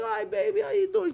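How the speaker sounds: high, soft imitation of a doting mother; happy mother. Mother happy to see her son, cooing. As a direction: coo a sweet greeting, pitch way up. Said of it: "my mother's so happy".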